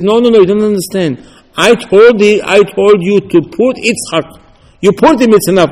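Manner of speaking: Hashem explaining. Retold or imitated.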